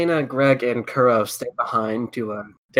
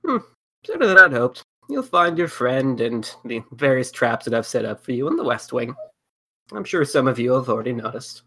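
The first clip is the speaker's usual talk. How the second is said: put-on sweet old lady. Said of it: "I don't do a very good old lady voice".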